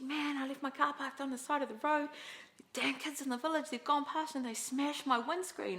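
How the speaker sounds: a hint of the sister complaining; mock-aggrieved sister; sister's message. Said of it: "she messaged me and she said".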